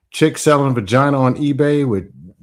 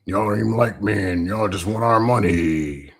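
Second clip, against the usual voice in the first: lightly voiced mocking complainer; mock complaining voice; 6 semitones lower, 5 dB quieter than usual. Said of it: "if they say that".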